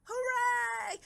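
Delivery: high loud triumphant shout; cheering shout. Acted. Twins cheering as they win the race, triumphant shout. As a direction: yell with victory. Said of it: "yelled the twins".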